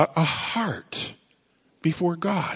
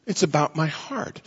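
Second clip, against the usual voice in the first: softer echo; 6 dB quieter than usual. Shown as a demonstration. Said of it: "repeated phrase, softer".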